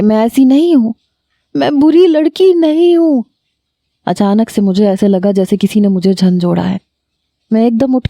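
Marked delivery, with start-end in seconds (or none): 0.0-3.2 screaming in despair. A narrator's reading. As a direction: cry out that she is not a bad girl. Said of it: "اور زور زور سے چلانے لگی".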